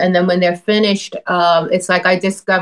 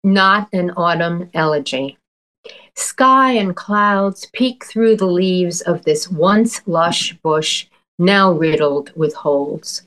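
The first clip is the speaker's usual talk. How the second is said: poem reading. Acted. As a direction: read it like a poet savoring images. Poet reads her poem aloud.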